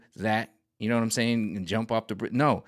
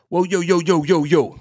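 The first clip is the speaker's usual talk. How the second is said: loud, alarmed yo yo; startled realization; 6 semitones higher, 7 dB louder than usual. Retold or imitated. Actor finally getting it, loud and startled. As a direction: suddenly hit by reality.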